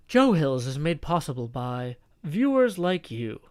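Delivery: muffled announcer voice through hand; hand over mouth. Pretend. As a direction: talk into your cupped hand like an announcer. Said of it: "I can't do that voice without talking into my hand".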